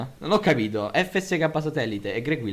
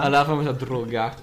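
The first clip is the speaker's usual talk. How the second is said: put-on southern Italian accent. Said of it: "con l'accento del sud di Sapo Bulli".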